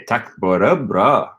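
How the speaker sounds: slow "Tack bara bra", "bara" going down then up; down-up intonation. Shown as a demonstration. Learner copying the native speaker, down-up intonation on "bara". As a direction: draw it out, with a down-up lilt on "bara". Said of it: "So I'm gonna say".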